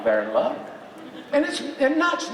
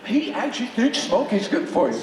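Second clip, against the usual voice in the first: mock outraged critic; 3 semitones higher than usual. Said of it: "that are going".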